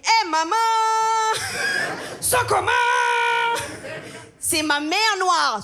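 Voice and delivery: a mock street accent, half shouted; son's put-on accent. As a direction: her son teasing her in a put-on accent. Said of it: "il prend un accent".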